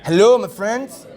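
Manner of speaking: slow, drawn-out attempt at a Canadian accent on "Hello"; mock Canadian accent. Interviewer tries a Canadian accent for the player: slow, hammed-up Canadian. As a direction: ham up a Canadian accent, stretching it slowly. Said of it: "Canadian accent?".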